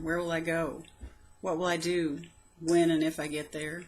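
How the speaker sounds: measured, heartfelt poem recital; poem reading. Acted. Poet reading her old poem aloud, heartfelt recital. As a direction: read it like a private diary poem. Reads own prose poem.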